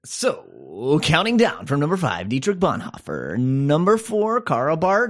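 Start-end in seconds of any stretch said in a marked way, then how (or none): 1.0-5.1 a hint of a radio countdown DJ; mild mock Top 40 announcer; Casey Kasem impression. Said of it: "Thank you for that Casey Kasem, uh, impression".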